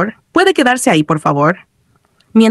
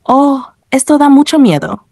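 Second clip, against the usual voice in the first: higher-pitched frightened remark; mildly startled; 6 semitones higher than usual. A narrator's reading. Player jumps while being chased, mildly startled. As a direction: voice raised in pitch, a touch shaken. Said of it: "Entre risas y sobresaltos, repitió".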